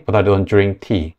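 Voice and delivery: slow, drink with j-like dr. Shown as a demonstration. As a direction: say drink as jrink slowly. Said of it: "디알 발음은 즈". (즈 발음으로 drink)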